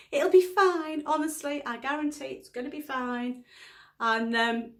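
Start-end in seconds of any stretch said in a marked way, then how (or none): 0.1-3.4 high-pitched, emphatic start easing down; insistent reassurance. Retold or imitated. Wife retelling her answer to doubting husband, insistent reassurance. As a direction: reassure someone who keeps doubting.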